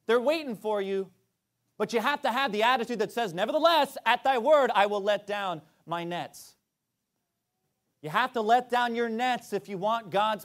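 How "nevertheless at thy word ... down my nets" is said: raised, louder on "Nevertheless, at thy word"; vow to God. Pretend. Parent vowing to God, raised then dropping. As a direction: declare it like an oath.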